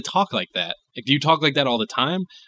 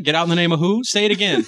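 devil mishearing; 3 semitones higher, faster than usual. Pretend. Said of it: "What was that?".

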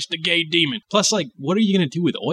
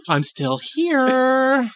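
much higher, very slow drawn-out tease; taunting devil; 10 semitones higher, much slower than usual. Pretend. Host voicing the devil, slow taunt. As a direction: stretch it out to needle him.

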